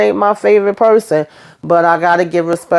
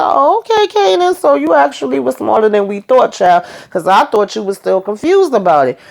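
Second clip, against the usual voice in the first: much higher, mock-surprised sass; sassy high reaction; 6 semitones higher than usual. Host reacting to Kanan, sassy high-pitched mock surprise. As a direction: squeal it like a disbelieving auntie.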